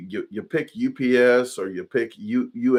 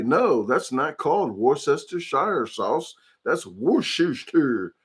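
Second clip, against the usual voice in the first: mock know-it-all buff; 3 semitones higher than usual. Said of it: "historical World War Two freaking buff".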